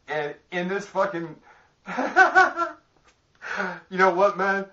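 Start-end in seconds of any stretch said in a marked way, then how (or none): 1.9-2.7 sharp high burst of real laughter. Real, not acted. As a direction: lose it laughing at your own joke. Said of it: "If I'm laughing like this".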